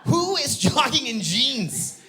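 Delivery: high, loud mock outrage; incredulous. Comic ranting about a jogger in jeans, incredulous. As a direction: stretch it out in baffled disbelief.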